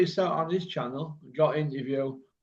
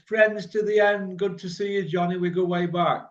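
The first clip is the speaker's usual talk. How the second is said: mock chummy talk; 5 semitones higher than usual. Mocking a pundit's fake friendship on Sky. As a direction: send up the boxers' chummy talk, lightly. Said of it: "all this".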